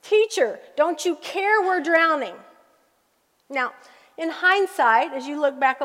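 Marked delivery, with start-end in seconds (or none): 0.0-2.3 high anxious plea; a touch of fear, high on Teacher; frightened question. Retold or imitated. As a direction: cry out in panic to the teacher. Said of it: "with this frightened question".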